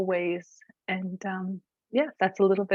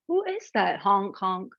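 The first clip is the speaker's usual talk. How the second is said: goose voice. Acted. Goose character speaks.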